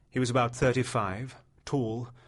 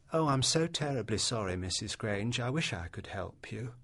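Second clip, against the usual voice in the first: mock Oxford accent; 5 dB quieter than usual. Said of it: "She imitated his Oxford accent".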